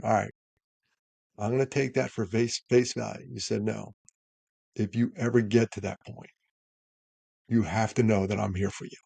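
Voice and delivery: cool the temperature, gently; the right way to answer, calm and caring; reassuring. Shown as a demonstration. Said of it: "The temperature has dropped".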